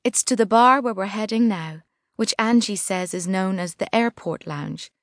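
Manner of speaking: ordinary delivery, nothing marked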